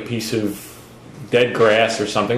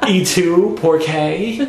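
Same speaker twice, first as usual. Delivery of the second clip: higher, laughing mock Spanish; Spanish accent; 5 semitones higher, much slower than usual. Shown as a demonstration. Host showing off to doubtful co-hosts, hammed-up Spanish accent. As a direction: lay on a playful Spanish accent. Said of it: "Listen to Spanish accent".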